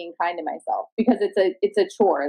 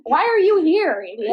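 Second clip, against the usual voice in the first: mock insult to the open mic guy; mock scornful jab; 7 semitones higher than usual. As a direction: tease the complainer. Mocking the complainer.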